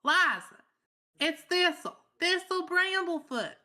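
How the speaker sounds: high, loud calling out; shouting. Acted. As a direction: raise the voice so she hears. Shouting name to deaf herbalist.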